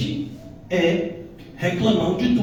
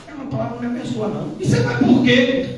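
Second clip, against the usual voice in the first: mock spiteful churchgoer; 5 semitones higher, 5 dB louder than usual.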